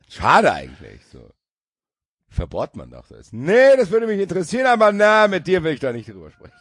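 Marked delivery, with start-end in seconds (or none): 3.3-6.5 mock voice. Joking put-on voice, then laughter.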